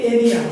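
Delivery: এরিয়া starting on an এ vowel; A sounded as এ. Shown as a demonstration. Teacher giving area as an example, এরিয়া said with এ. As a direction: say এরিয়া with its first sound like একার. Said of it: "একারের মতো উচ্চারণ হচ্ছে".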